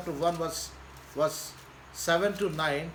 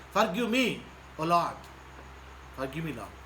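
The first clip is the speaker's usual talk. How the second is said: a penitent sinner praying, fading to a hush; humble prayer. Acted. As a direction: plead for forgiveness, head bowed. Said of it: "come to Jesus and says that".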